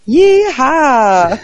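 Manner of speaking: high, loud cowboy whoop; cowboy yeehaw. Retold or imitated. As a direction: holler it like a rodeo cowboy. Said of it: "going around as American again and going like".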